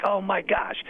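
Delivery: high-pitched starstruck gush; imitating schoolgirls' excitement; giddy schoolgirls. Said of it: "We're like schoolgirls".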